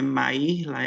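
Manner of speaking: Maírla with a separate stressed "í"; checking name pronunciation. Shown as a demonstration. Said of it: "A pronúncia do, do seu nome é".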